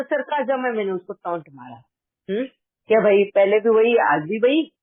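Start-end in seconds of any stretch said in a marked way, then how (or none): 2.9-4.7 louder, pointed jab at a repeated mistake; sarcastic taunt. Shown as a demonstration. Elder sister-in-law scolding the younger one's repeat mistake, loud sarcastic taunt. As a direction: needle her with a raised, mocking reproach. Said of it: "इस तरह से".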